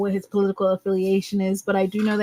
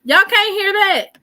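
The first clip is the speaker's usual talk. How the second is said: higher, louder, slower disbelief; stunned repeat; 8 semitones higher, 6 dB louder than usual. Real, not acted. Streamer asking chat again, slow loud disbelief. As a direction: drag out the question, still stunned.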